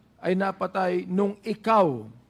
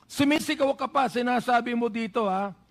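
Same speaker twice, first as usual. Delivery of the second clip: heated questioning. Real, not acted. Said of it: "Hindi ako nagagalit sa'yo. Dynamic lang ako".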